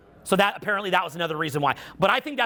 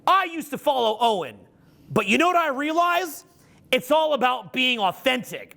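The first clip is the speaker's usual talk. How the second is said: higher-pitched parody of a former fan; mock revelation; 5 semitones higher than usual. Speaker quotes ex-fans claiming his teaching, mock revelation. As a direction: imitate a fan announcing a big realization. Mocking former fans' boasts.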